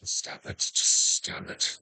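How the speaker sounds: breathy whispered stop it; whispering. Real, not acted. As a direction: whisper it to the crowd. Teasing crowd, whispered.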